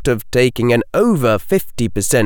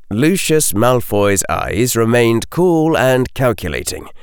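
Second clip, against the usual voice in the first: ordinary delivery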